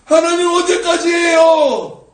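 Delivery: high, loud, drawn-out cry to God; stretched wail of a plea; desperate prayer. Acted. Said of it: "어떻게 기도하고 있냐면".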